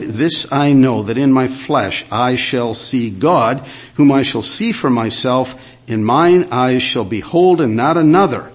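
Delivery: strong, steady pulpit reading; proclaimed scripture reading. Acted. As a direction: read it out as a bold confession of faith. Reads scripture aloud proclaiming.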